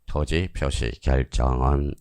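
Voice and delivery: careful, segmented teacher's reading of "토지 표시 결정은"; correct reading demo. Shown as a demonstration. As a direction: read "토지 표시 결정은" word by word, letting each one sink in. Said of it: "이렇게 읽어야지".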